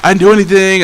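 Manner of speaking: imitating a kid freaking out, defensive; panicked denial. Telling classmates he did nothing, panicky. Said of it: "I'm talking like this".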